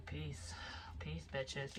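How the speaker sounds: softly voiced mock farewell; a hint of a muttered exit line; hushed sign-off. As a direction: drop to a soft, dismissive goodbye. Acted exit in a quote.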